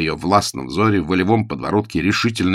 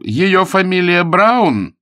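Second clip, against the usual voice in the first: slow nervous drawl; 12 semitones higher, 7 dB louder, much slower than usual. A narrator's reading. Nervous nephew explaining.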